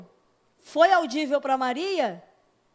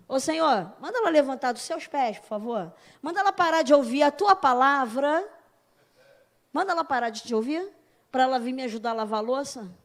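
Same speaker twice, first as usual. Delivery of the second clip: Martha pleading. Retold or imitated. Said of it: "Olha bem o que ela tá falando".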